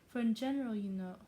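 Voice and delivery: abandoned attempt at an English accent; fake English accent. Wife explaining visiting customs, in faltering fake English accent. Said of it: "I've given up on faking accent".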